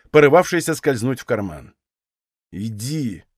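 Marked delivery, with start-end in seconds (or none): 2.5-3.2 low, strained, barely getting it out; choked-back order; forced out. A narrator's reading. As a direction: squeeze the word out through restraint. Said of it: "насилу выговорил он".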